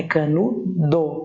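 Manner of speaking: "canudo" drawn out with stressed NU and a clear final O; teacher spelling out "canudo" by sound; spelling pronunciation. Shown as a demonstration. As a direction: say "canudo" slowly, ending on a full DO. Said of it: "A sílaba tônica é a penúltima".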